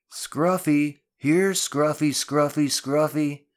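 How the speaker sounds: high, loud, repeated dog call. Acted. Drew adds his own contribution, calling out loudly. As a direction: call out for a lost dog in quick bursts. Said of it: "Drew called".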